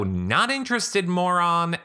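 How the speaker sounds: snappy, high dismissal at the door; curt brush-off. Retold or imitated. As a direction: slam it shut with your voice. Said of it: "I open the door and go".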